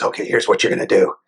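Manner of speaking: menacing voiceless kidnapper, quick. Retold or imitated. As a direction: kidnapper takes the phone to give orders to the parent, a quick voiceless threat. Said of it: "the kidnapper supposedly gets on and says".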